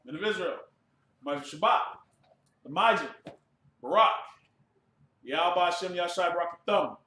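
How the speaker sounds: loud chanted salute; ritual salute shout. Real, not acted. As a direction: call each name out loud, crisp and ceremonial. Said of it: "one courtesy salute to the Akim".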